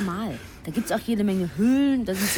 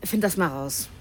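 curt order; bossy. Acted. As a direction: snap it as a command. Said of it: "rede mal bitte anders mit mir".

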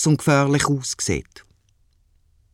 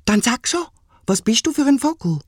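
put-on child voice; 10 semitones higher than usual. Child asks the bird.

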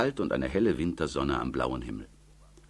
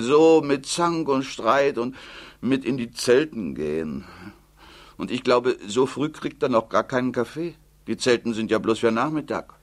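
put-on higher, louder old mother's complaint; fretful old mother, louder; 7 semitones higher, 5 dB louder than usual. Old mother complaining to Tilde about the quarrel, louder and higher.

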